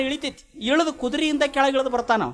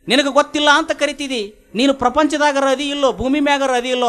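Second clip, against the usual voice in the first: mildly indignant, raised pitch; acted irritation; 4 semitones higher than usual. Alexander challenges the sadhu who doesn't know him, mildly irritated. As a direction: let a touch of irritated disbelief lift the voice. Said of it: "ಚಟ್ ಬಂತು ಅವನಿಗೆ".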